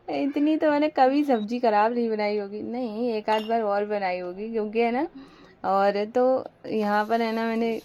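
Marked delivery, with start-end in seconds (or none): 0.1-2.6 real giggle through the words; laughing. Real, not acted. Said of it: "मुझे इतनी हंसी आ रही है".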